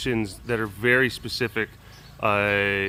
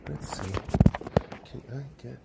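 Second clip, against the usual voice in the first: whispering sweetly; 4 dB quieter than usual. Real, not acted. Whispered praise to bird.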